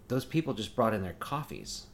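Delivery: soft, slow, hushed remark about the couple; hushed report. Retold or imitated. Partner noticing the couple, soft and slow. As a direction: lean in and say it quietly. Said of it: "She's like".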